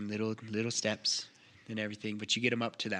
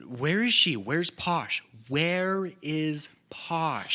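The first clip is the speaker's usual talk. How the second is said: urgent demand; 5 semitones higher, 4 dB louder, much slower than usual. Acted. Character demanding Posh's whereabouts.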